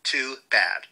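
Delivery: dry whispered shrug; a sly little whisper; whispered aside. Real, not acted. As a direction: drop to a whisper, brushing it off. Dismissive aside about offended people.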